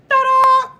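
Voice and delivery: high, loud ta-da fanfare; big high-pitched ta-da; showy ta-da. Real, not acted. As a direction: belt it out high like a big reveal. Showy reveal exclamation.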